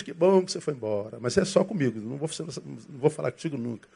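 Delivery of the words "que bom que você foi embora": soft muttered relief once he's gone; quietly glad he left; mild relieved aside. Retold or imitated. Pastor muttering after the visitor leaves, relieved. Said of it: "Quando ele vai embora feliz".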